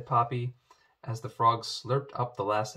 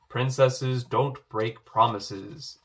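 stern; 6 dB louder, slower than usual. Acted. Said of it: "interrupted the king sternly".

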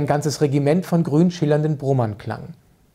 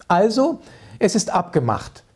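gushing lady; 5 semitones higher than usual. Acted. Frau Mark's gushing farewell.

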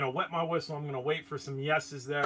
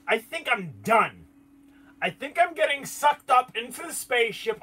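mock panic; 9 semitones higher, 6 dB louder than usual. Retelling fear of abduction.

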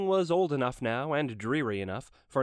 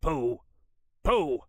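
dismissive pooh; 4 dB louder than usual. Acted. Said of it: "He said".

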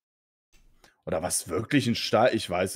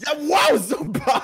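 sarcastic; 7 dB louder, slower than usual. Real, not acted. Sarcastic reply to spoilers.

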